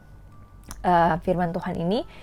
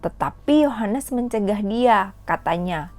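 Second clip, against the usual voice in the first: put-on measured, clear Bible reading for children; scripture reading. Teacher reads Matthew to kids at home, in a clear storytelling read.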